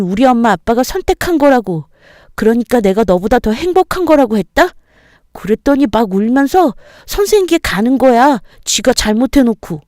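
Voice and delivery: put-on high, indignant boy's voice telling on a classmate; a kid proud and still cross; indignant child. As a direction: son retelling the fight to mom, high and indignant. Son reports fight to mom.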